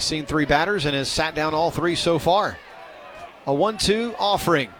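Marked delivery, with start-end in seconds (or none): 3.5-4.7 live play-by-play. Real, not acted. Announcer follows a line drive to left field, live play-by-play. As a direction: call the base hit as it happens.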